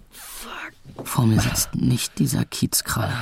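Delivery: barely voiced, stunned whisper; dazed whisper. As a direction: mumble in disbelief. Dazed after knockout muttering.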